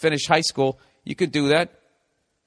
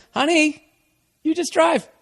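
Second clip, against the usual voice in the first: put-on higher, coaxing boyfriend; boyfriend insisting; 14 semitones higher, slower than usual. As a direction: coax her gently but firmly.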